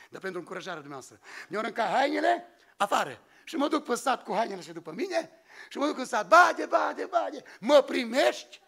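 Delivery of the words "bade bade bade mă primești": louder, slow call to a neighbour from the road. Retold or imitated. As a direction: call across the yard, stretched out. Calling out at a neighbour's gate.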